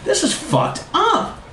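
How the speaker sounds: very high, hammed-up complaint; comic high-pitched outcry; mock screaming. A narrator's reading. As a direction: wail it high, slowing at the end. Periodontist screaming in dismay.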